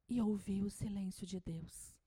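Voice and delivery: hushed whisper. Real, not acted. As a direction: breathe it like a secret. Speaking of silence.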